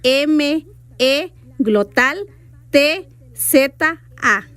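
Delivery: metza spelled letter by letter; spelling the word for the listener. Shown as a demonstration. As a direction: spell it slowly, pausing on each letter. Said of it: "La glotal va después de la E".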